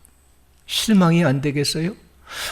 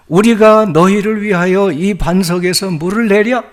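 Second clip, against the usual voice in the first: mild angry retort; 4 semitones higher, 6 dB louder than usual. Retold or imitated. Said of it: "화를 내면서".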